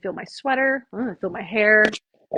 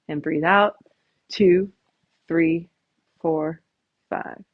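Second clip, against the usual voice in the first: measured breathing-coach count with long gaps; guided breathing count; 2 semitones lower, much slower than usual. Shown as a demonstration. Coach counting the class through slow breaths, guided breathing count. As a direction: pace the breath, one word at a time.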